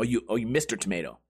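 usual speaking voice

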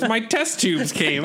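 imitating Matt. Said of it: "He goes".

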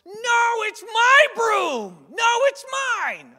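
very high, loud, slow whiny "mine!"; childish squabble. Retold or imitated. Two adult waiters squabbling like toddlers, high mock whine. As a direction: whine like a toddler grabbing a toy. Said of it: "seeing these two people go".

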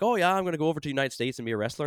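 put-on Irish accent. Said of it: "don't know what accent that is".

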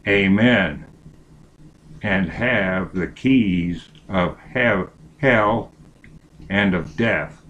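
slow solemn Bible reading; scripture reading. Acted. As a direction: read it slow and reverent.

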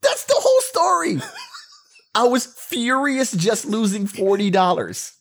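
high, laughing through the words; giggling through the line. Real, not acted. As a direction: crack up while insisting. Laughing defending his story.

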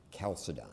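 Chalcedon begun with K, KAL-suh-don; hard K. Shown as a demonstration. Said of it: "which is pronounced K".

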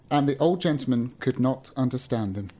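measured storybook reading; story narration. A narrator's reading. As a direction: read it out like an old-fashioned tale. Reads a story aloud.

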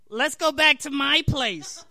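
slow, loud put-on raspy come-on; raspy seductive voice. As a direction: drag it out like a croaky seductress. Patty's quoted invitation.

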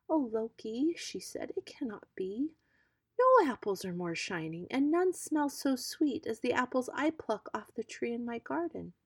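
gentle Iduna insisting her apples are best; earnest young goddess, voiced lightly; pleading maiden.

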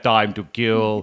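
slow, lightly voiced action hero; Schwarzenegger impression. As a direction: drawl it like an action star. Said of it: "Arnold Schwarzenegger would be like".

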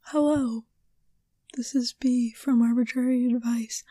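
measured, polished podcast greeting; professional host intro. Pretend. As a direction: introduce yourself like a pro host. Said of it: "starting to sound like a professional".

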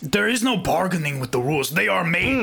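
put-on stilted, unplaceable European accent; hammy foreign accent of no clear country; muddled put-on accent. Co-host refusing to bargain over rules, muddled foreign accent. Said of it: "Nobody knows what accent".

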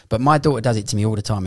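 normal talking voice

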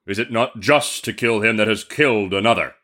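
genie arguing for vengeance; stern genie. Acted. Genie justifies the killing to the merchant, stern voice. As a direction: put it as an unyielding judgement. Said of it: "exclaimed the genie".

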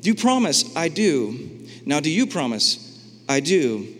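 a preacher acting out wedding vows between God and people, playful; mock wedding vows. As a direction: ham it up like a wedding ceremony. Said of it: "they're like".

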